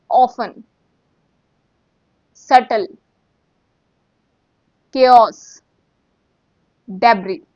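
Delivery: each word called out clearly and loudly; loud pronunciation review; revision drill. Shown as a demonstration. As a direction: run through the words like a drill. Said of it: "Let's revise everything quickly".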